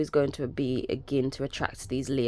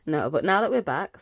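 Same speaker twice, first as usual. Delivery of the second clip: louder; 6 dB louder than usual. Real, not acted. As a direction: back to a loud normal voice. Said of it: "sorry if that has just gone loud".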